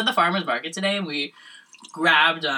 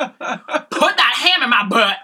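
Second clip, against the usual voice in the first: Missouri hick voice; 6 semitones higher, 5 dB louder, much slower than usual. Retold or imitated. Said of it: "didn't even do the Valley Girl accent".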